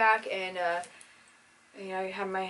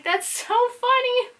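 high squeaky quote; 8 dB louder, slower than usual. Retold or imitated. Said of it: "And I was like".

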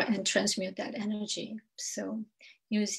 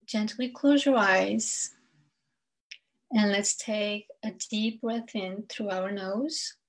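unhurried meditation guide, long pauses between phrases; spaced-out phrases, leaving room to breathe; guided meditation. Acted. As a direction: lead listeners gently through breath and grounding.

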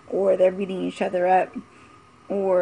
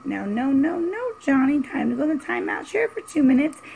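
put-on higher, sing-song scolding of a child; 5 semitones higher than usual. Mocking a permissive parent scolding Johnny, higher sing-song.

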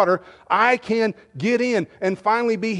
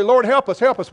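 pleading prayer; 4 semitones higher than usual. Acted. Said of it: "we come to the Lord and we say".

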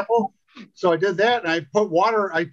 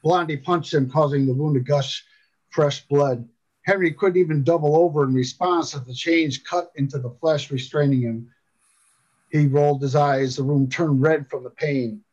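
measured audiobook narrator; composed storytelling voice; story narration. A narrator's reading. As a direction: read the tale aloud with steady pacing. Reads a story aloud.

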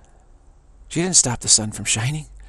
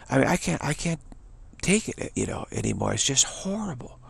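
exasperated; 4 semitones higher, 4 dB quieter than usual. Real, not acted. Exasperated at infantile people.

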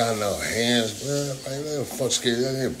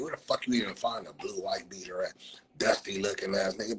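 whispered jab; 6 dB quieter than usual. Real, not acted. Mocking insult aside.

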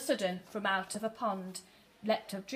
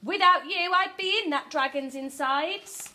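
high, relieved gratitude; grateful cry; 6 semitones higher, 5 dB louder than usual. A narrator's reading. Witch tells her friends they saved her, gratefully. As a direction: gush with thanks, starting high and loud. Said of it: "the grateful witch cried".

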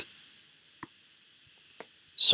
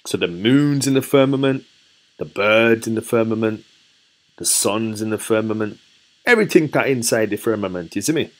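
put-on lightly done Jamaican accent; a poor Jamaican accent attempt. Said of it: "that was a very poor Jamaican accent".

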